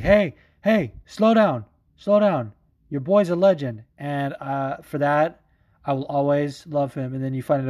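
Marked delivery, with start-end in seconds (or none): 0.0-3.8 higher, louder call to a booing crowd; calm the crowd down, big and raised; Chito Vera hushing the crowd. Retold or imitated. Winner getting booed, telling fans to respect the legend. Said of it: "he was just like".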